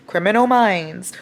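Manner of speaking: slow, weighty reveal; drawn-out mock-dramatic turn; mock plot twist. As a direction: drop it slowly as the sudden twist. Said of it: "the book literally was going".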